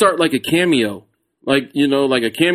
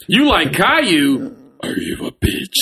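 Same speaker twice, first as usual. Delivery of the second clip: creepy voice; 4 semitones higher, slower than usual. Shown as a demonstration. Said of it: "switch voices on a bitch".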